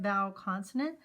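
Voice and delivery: ordinary talk, nothing marked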